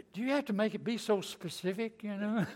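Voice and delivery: laughing through the words. Retold or imitated. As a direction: chuckle while you ask it. Joking about bargaining with God.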